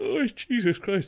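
very high voice, stretched out through a yawn. A tired streamer talks to viewers about the new mode, yawning. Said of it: "sorry, I'm yawning".

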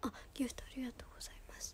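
soft, quiet, unvoiced whisper.

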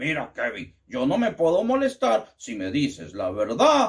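tired, low father's voice.

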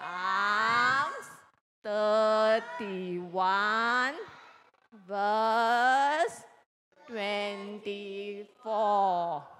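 very slow reading, each word stretched out. Reading out a Bible verse reference after being told to read like a sloth, very slowly. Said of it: "read the verse as slowly as a sloth moves".

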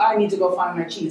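ordinary talk

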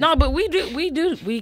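tipsy stuttering restart, very high and loud. Starting to make a point to another speaker, stuttering after drinking. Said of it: "I'm stuttering like shit off that damn Jim Beam".

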